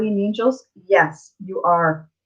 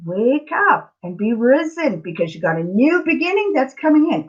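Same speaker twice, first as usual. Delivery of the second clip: higher-pitched urging, as karma speaking; karma's wake-up call; 5 semitones higher than usual. Acted. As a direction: sound a rousing wake-up call. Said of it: "That's karma telling you".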